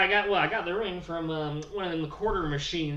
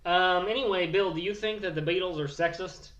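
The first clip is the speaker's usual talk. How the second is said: rowdy hillbilly Bill bragging about his wedding news; redneck Bill Morgan. Acted. Character Bill continues.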